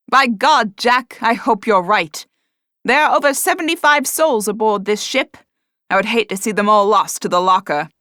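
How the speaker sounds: loud, anxious sailor; worried first mate. A narrator's reading. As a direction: fret over the crew.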